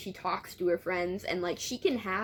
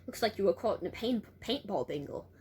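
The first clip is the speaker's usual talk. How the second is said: attempted Australian girl's accent; amateur Australian voice. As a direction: keep up a wobbly Australian accent. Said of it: "keep up an Australian accent".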